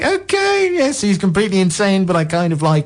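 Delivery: high voice sinking as the air runs out; starts very high, winding down breathless; running out of breath. Real, not acted. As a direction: squeeze it out on the last of a breath. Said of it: "running out of breath".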